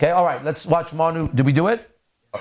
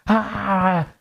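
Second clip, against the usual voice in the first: imitated scream; 6 semitones higher than usual. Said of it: "the lady was in the front going".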